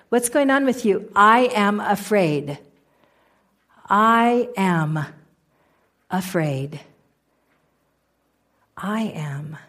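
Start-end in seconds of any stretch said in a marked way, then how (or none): 1.2-9.6 says it slower, then drops to a breathless whisper; fading to a whisper. Shown as a demonstration. Telling herself she's afraid, fading into a whisper. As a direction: let the words fade away into a whisper. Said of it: "we say to ourselves".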